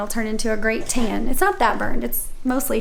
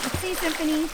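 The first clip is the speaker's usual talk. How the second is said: cheerful game host; 10 semitones higher than usual. Real, not acted. Hosts kids' challenges.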